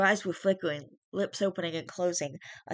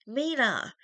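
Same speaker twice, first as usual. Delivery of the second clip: high panicked call; panicked shout; 8 semitones higher, 4 dB louder than usual. A narrator's reading. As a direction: shout her name in panic. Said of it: "Charlie's panicked voice".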